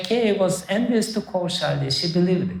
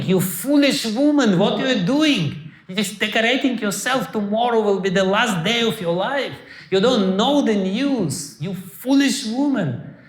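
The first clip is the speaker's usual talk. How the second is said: angry cry; 4 semitones higher than usual. Retold or imitated. Scheming maid scolding her queen, raised and angry. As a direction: berate her, voice raised and urgent. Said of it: "Manthara started crying".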